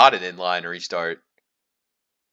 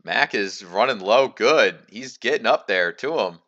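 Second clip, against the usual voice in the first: lively, slightly raised commentator's call; live race play-by-play; 3 semitones higher than usual. Acted. Race commentator calling the battle for the lead, live play-by-play.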